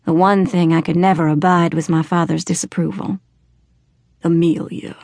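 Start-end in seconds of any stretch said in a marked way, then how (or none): 4.2-5.0 father apologising to his daughter; regretful. A narrator's reading. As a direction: say her name gently, sorry. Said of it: "There was regret in his tone".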